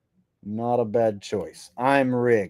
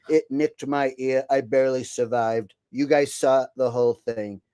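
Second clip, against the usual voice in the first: a hint of Trump playing the victim; Trump impression. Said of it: "enough Trump".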